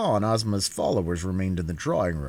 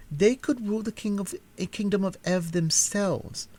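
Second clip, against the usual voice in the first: higher, self-absorbed chatter; vain princess; 8 semitones higher than usual. A narrator's reading. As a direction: complain airily about duties of state. Princess voiced in story.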